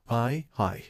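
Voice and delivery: shaky stammer; stuttering. Acted. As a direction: stammer it out nervously. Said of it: "in stuttering tone".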